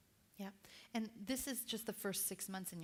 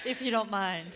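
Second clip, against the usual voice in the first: spa voice; 3 semitones higher, 9 dB louder than usual. Retold or imitated. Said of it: "spa voice".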